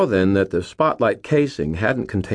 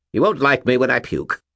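warning; 7 semitones higher, 3 dB louder than usual. A narrator's reading. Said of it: "Bob warned him".

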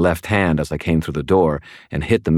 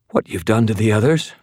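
thready voice; 6 semitones higher than usual. Acted. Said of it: "her voice thready".

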